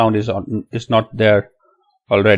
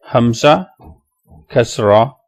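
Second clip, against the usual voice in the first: each name set apart, ending on a rise; name letter, pause, name sign; spelling it out; slower than usual. Shown as a demonstration. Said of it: "let's spell the other one".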